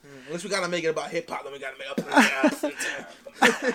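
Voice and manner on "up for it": slow, loud, laughing through the words. Real, not acted. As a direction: chuckle it out high and slow.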